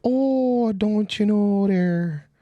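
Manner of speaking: very high, drawn-out Canadian with cowboy whoop; Canadian-Texan accent. Acted. Answering request to mix Texas with Canada, exaggerated accent. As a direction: stretch the Canadian vowels, then whoop Texan. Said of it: "it would be like".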